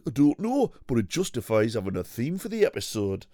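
bouncy northern cookery-show host. Pretend. Voicing a Hairy Biker.

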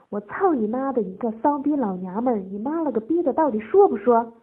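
loud, abusive bullying; angry demand. A narrator's reading. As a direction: build to a shouted ultimatum.

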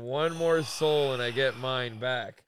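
slow, loud, menacing line; retelling Kinison's creepy line to a friend, slow and menacing; slow ominous quote. Retold or imitated. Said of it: "I always remember that line".

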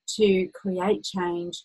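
drawn-out, very slow delivery; slow right down on each word; slow emphasis. Real, not acted. Coach stressing key phrase slowly.

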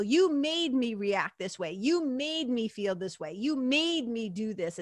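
drawn-out, accusing mimicry; mock blaming. Someone blaming other people for their reactions, mock accusing. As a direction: act out slow, sing-song finger-pointing.

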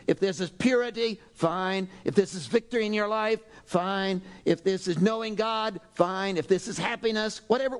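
ordinary talk, nothing marked

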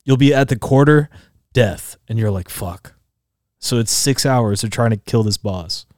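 usual speaking voice

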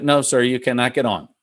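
lightly imitated Spanish accent; amateur mock Spanish accent; bad Spanish accent. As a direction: attempt a poor Spanish-accented English. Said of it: "that's my worst Spanish accent".

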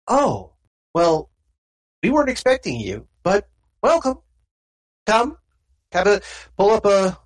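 welcoming, easygoing host voice; offhand friendly stranger inviting the player to sit; stranger NPC voice. Acted.

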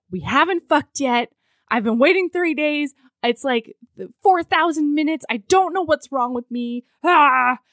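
lightly hammed-up impatient complaint; mock frustration. Imitating the heroine fed up after three days, mildly exasperated. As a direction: build the grievance to a loud mock groan.

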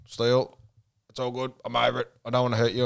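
understated, unbothered retelling; calm mock reassurance; imitated calm. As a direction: play him quietly resigned. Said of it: "he was calm as fuck as well".

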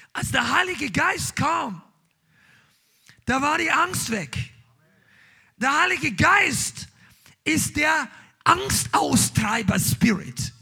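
slow, emphatic sermon build; fiery preaching. Acted. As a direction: preach it out with conviction. Preaching at full force. (kraftvolle Predigt)

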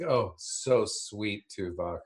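slow, drawn-out mock fondness; lingering, teasing coo; mock sentimental. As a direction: stretch it out as teasing sweetness. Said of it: "I was like".

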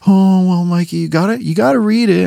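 put-on high, sing-song teacher coaxing a kid; mock the grown-ups pushing him to read. Teachers coaxing a crying third grader, mocking high voice. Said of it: "And they're like".

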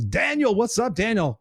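high-pitched, delighted hail; excited greeting. Real, not acted. Host greeting a friend in the chat, excited hail. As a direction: call out to a friend you just spotted.

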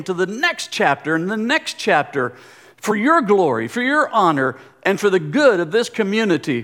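earnest spoken prayer to God. Real, not acted. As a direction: pray sincerely over the church.

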